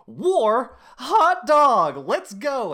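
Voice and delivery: hammed-up, high and loud cheer for war; eager war cry. Soldiers at a party cheering the news of war, mock eager yell. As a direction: yell it like a gung-ho soldier off to enlist. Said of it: "they're like".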